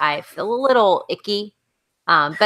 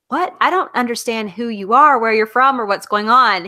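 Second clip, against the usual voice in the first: put-on baffled young Ian, higher and louder; confused; 5 semitones higher, 4 dB louder than usual. Young Ian puzzled by the slave's thick Scottish speech, higher baffled voice. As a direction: sound totally lost by what he hears. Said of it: "super confused look".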